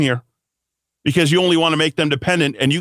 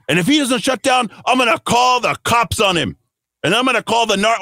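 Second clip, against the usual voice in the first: mock local Hispanic accent, mostly pitched up; put-on Hispanic accent; 5 semitones higher than usual. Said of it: "I'm doing that in the accent".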